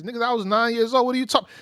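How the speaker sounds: high, loud disbelief; incredulous. Retold or imitated. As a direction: act out his outraged reply. Mocking Skepta's incredulous reply.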